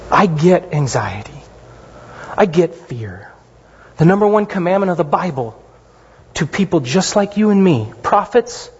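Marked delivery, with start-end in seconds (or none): 0.1-3.3 whispered comfort. Acted. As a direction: breathe it gently, like a comfort. Gentle voice of Jesus.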